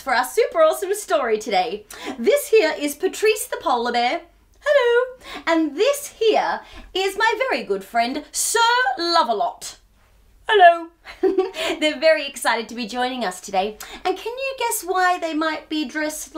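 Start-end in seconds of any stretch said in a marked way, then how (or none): 4.6-5.2 puppet voice. Acted. Polar bear puppet greets. 10.5-11.8 puppet voice. Acted. Second puppet greets, laughing.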